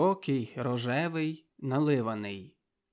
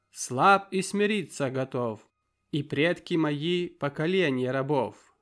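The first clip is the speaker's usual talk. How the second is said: declaiming verse; 2 semitones higher, 4 dB louder than usual. A narrator's reading. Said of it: "продекламував несподівано Лінкер".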